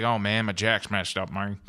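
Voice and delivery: lightly voiced dopey bandmate; dim-witted bandmate. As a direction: imitate a slightly dopey musician complaining. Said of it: "that's not how he sounds".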